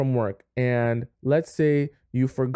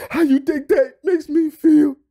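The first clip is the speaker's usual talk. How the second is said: louder, hammed-up hurt outburst; mock wounded shout; 14 semitones higher, 7 dB louder than usual. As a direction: repeat the grievance louder and heavier. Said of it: "he starts talking to you about this story".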